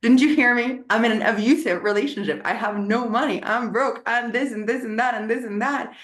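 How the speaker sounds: high, exasperated mock outrage; mock indignation. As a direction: play your past self offended he wasn't listening. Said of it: "I was like".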